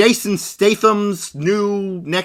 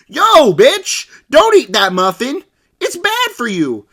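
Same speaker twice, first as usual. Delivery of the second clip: louder, higher mock scolding father; hammed-up overprotective dad; mock angry dad; 6 semitones higher, 4 dB louder, slower than usual. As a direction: bark at the daughter on the phone. Father scolding daughter over muffin.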